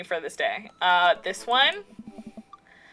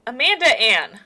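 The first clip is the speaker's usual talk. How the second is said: stern full-name call; 4 dB louder than usual. Acted. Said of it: "we're pulling out the middle name now".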